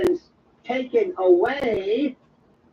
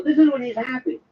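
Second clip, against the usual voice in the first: ordinary delivery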